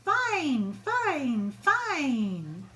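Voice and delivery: loud triumphant chant; cheering shout. Acted. Children and teachers cheering their principal, loud joyful chant. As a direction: chant it out in joy. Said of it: "fine teachers shout".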